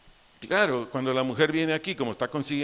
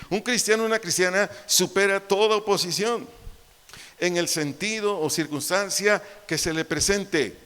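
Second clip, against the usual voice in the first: higher and louder emphatic repetition; raised preaching repeat; 4 semitones higher, 4 dB louder than usual. Shown as a demonstration. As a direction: drive it home harder. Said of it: "Te lo vuelvo a decir".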